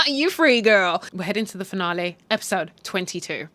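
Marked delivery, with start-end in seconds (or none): 0.1-1.0 amused, lifted congratulation; laughing cheer. Real, not acted. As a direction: cheer her on through a laugh.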